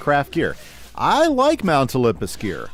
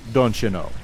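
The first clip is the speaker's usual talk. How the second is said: lightly imitated Minnesota accent; amateur stab at Minnesotan speech; goofy Minnesota accent; 2 semitones lower than usual. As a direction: have a go at a mild mock Minnesota accent. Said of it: "They have the goofy accents".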